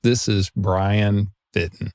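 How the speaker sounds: Fitton in a mild Southern accent, "Fitton" as "fittin"; slow lightly Southern "Brian Fitton". Shown as a demonstration. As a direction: say the name the Southern way, slowly. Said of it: "I'm saying that with a Southern accent".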